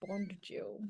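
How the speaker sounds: very slow, paused spy introduction; mock James Bond style delivery; shit spy accent. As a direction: play the suave secret agent, drawn out. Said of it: "your best shit spy accent".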